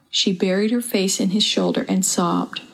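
usual speaking voice

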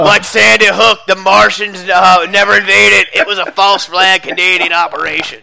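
lightly voiced ranting radio host; a hint of conspiracy radio rant; Alex Jones impression. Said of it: "I can't do the Alex Jones".

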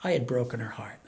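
quiet, choked-up confession; holding back tears; teary-eyed. Real, not acted. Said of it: "I'm teary-eyed through this".

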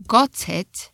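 got it with a clear T, British. Shown as a demonstration. A teacher showing British got it. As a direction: say got it with a crisp T. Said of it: "Or in British".

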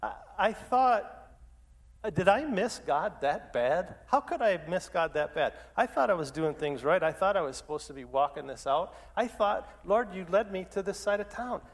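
exasperated, pitch lifting on the protests; retold bewildered frustration, stretched out at the start; frustrated. Pastor recalls questioning God after the lost deal, frustrated. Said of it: "I'm, I'm just frustrated".

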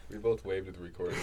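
laughing through the words; chuckling while telling it. Real, not acted. Laughing about waving at recording.

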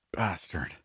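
soft, tight-jawed curse; through gritted teeth. Acted. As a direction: spit it out through clenched teeth. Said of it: "I said through gritted teeth".

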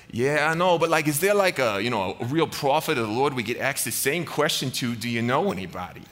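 put-on light Boston mob boss accent; hint of a Boston gangster, half in earnest. Jehoshaphat asking for a real prophet, light Boston gangster accent. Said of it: "old school gangsters with Boston accents".

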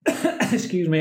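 coughing through an apology. Real, not acted. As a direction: clear a tickly cough mid-sentence. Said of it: "I'm coughing with excitement".

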